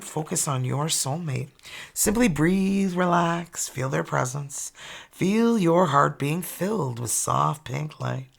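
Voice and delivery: gentle guided breathing cue; guided meditation. Acted. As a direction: ease them into calm. Leads a meditation.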